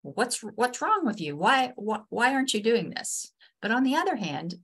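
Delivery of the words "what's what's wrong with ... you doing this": mildly exasperated, higher-pitched scolding; worked up. Acted. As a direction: demand an explanation, voice pitched up. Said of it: "I'm, I'm getting worked up".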